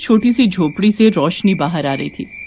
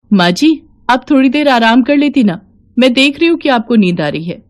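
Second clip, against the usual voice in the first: put-on gently concerned young woman, a bit higher; caring daughter-in-law; 4 semitones higher than usual. Seema urging her tired mother-in-law to rest, caring.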